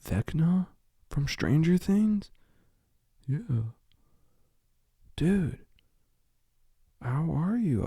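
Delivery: high, excited fan voice. Pretend. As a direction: starstruck squeal, slow on "Things". Webcam fan answers Vecna.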